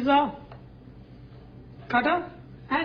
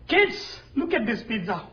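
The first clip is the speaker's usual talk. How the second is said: calling out. Real, not acted. Calling the kids over.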